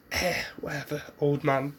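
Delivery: dismissive verbal shrug; Naruto. Acted. Boy brushes off the old man, shrugging. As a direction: brush him off, offhand and unbothered. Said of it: "vibe off to him".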